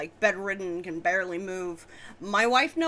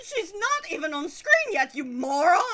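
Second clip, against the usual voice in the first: laughing scold; 8 semitones higher, 4 dB louder than usual. Acted.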